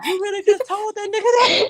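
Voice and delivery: high, cracked-up incredulous question; laughing too hard to speak normally; laughing disbelief. Retold or imitated. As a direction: squeal it through laughter. Retelling his laughing reaction.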